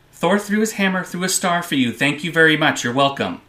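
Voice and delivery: proud fanboy boast, starting high; playfully smug comic-book fan. Pretend. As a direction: take credit for your heroes. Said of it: "let the speaker fanboy out a little bit".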